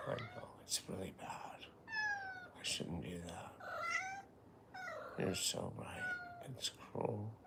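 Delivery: soft, near-whispered contrition; quiet, breath-only admission of guilt; hushed apology. Pretend. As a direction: murmur it softly, like soothing someone you startled. Hushed apology after loud noise.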